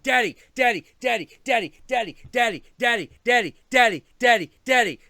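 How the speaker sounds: high, loud, insistent daddy-daddy calling; whiny cat voice. Retold or imitated. Cat pestering its owner, loud and high whine. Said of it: "He's like".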